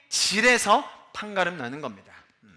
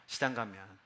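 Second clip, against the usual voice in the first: ordinary talk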